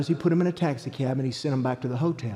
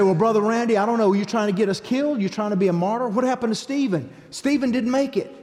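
imitating a doubting listener; 5 semitones higher than usual. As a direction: play the worried churchgoer pushing back. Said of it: "You say".

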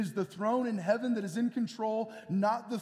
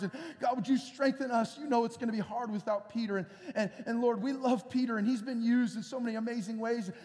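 earnest prayer; 2 semitones higher than usual. Retold or imitated. Voicing the church's prayer.

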